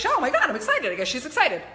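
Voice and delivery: high, laughing burst of excitement; giddy, high-pitched realisation; mock excited. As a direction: play the thrilled body catching on, with a laugh. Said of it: "your body's like".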